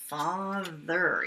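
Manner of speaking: "Father" with the th buzzing on the tongue; calm demo of a buzzy th; voiced th. Shown as a demonstration. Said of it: "It's a voiced one, a buzzy one".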